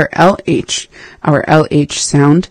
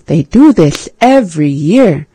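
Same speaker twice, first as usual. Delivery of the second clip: Sid the Sloth lisp. Retold or imitated. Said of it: "how he sounds like this".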